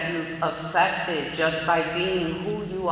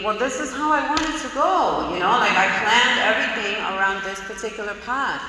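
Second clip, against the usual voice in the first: higher, insistent voice of the stubborn planner; frustrated inner voice; 5 semitones higher than usual. Retold or imitated. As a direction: whine it like a thwarted driver. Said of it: "you think".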